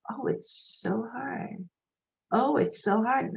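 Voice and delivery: mock pity. Coworkers pitying the mother of many, mock sigh. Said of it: "they look at me with such pity".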